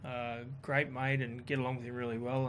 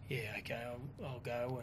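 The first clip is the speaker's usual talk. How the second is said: reluctant agreement, retold; 3 semitones lower, 10 dB quieter, slower than usual. Giving in to a request.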